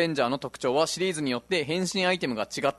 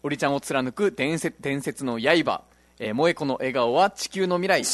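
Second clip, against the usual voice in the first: hammed-up hero roll call; slower than usual. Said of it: "どっからそのテンションで読んでいいかわからなくて".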